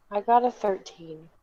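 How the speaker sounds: dejected, glum voice. Game player tells the group their roll result, sounding sad. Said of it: "I like how you sound sad about it".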